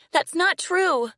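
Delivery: high, loud, slow denial; defiant little girl. A narrator's reading. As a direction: refuse to believe it. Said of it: "she said".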